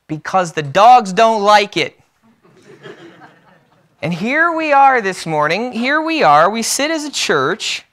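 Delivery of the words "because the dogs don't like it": lightly acted call from the crowd, raised. First-year salesman answers the CEO, calling out. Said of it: "one first-year salesman calls out".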